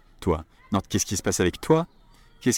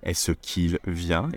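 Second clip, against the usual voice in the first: slowed right down, each word set apart; a careful slow model sentence; slow demo; 3 semitones lower, much slower than usual. Shown as a demonstration. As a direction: spell it out slowly for learners. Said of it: "teaching a sentence slowly".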